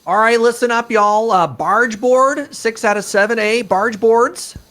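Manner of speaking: brisk command to the whole team; calling to attention. Real, not acted. Calling crew to attention with orders.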